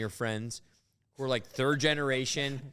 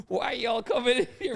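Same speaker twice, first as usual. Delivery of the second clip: mock Southern accent, raised and strained; 9 semitones higher, 3 dB louder than usual. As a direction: play an angry Southern store owner, pitched up. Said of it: "a southern accent".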